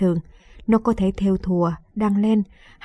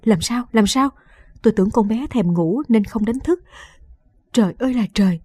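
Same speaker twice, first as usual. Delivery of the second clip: panicked. Acted. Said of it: "cũng cuống cuồng chạy vào".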